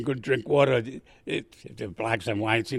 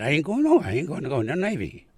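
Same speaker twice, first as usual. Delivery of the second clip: defiant refusal; 5 semitones higher, faster than usual. Retold or imitated. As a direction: refuse it hotly. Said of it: "I said".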